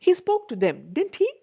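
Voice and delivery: high start, falling on "didn't he"; falling tag question. Shown as a demonstration. Teacher demonstrates tag questions, falling pattern. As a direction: state it, then drop the tag. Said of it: "അവിടെ ഒരു falling pattern".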